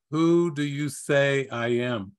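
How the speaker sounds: calmly posed, slow question. Retold or imitated. Jesus turns to Peter with his question, calm and slow. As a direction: ask it slowly and calmly, in an even voice. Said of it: "Jesus calmly and softly turns to Peter".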